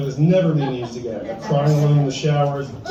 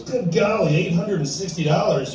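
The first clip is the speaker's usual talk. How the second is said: doctor balking at the price, higher pitched; mock shock; 4 semitones higher than usual. Doctor reacting to the plumber's bill with mock outrage. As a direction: act out a stunned gasp at the bill. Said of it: "And the doctor goes".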